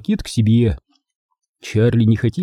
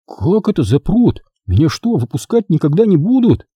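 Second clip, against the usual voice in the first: raised-pitch, incredulous questions; boyish, higher-pitched protest; dismayed boy; 7 semitones higher than usual. A narrator's reading. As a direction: ask in alarmed disbelief. Charlie dismayed at being locked up.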